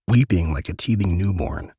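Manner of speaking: usual speaking voice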